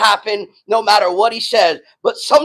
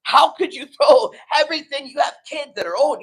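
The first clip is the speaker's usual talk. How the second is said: bewildered how; 4 semitones higher, 4 dB louder than usual. Retold or imitated. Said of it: "you're like".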